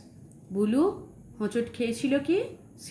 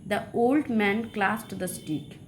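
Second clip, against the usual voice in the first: very slow, word by word; slow dictation; much slower than usual. Shown as a demonstration. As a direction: read it slowly for the class to copy. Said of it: "teacher reading example sentence". (ধীরে ধীরে পড়ে শোনানো)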